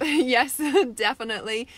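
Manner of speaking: laughing through a delighted yes; chuckling as she agrees. Real, not acted. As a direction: laugh out the agreement, real and bright. Laughing agreement with a viewer comment.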